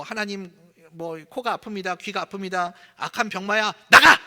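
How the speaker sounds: prayer that ends in a sudden barked command; imitating a shouting preacher. Revival preacher shouting at the sickness, imitated. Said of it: "소리를 버럭 지르거든요".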